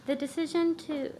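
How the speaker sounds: nervous, shaky start; jittery first words at the podium; stage fright. Real, not acted. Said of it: "I'm nervous".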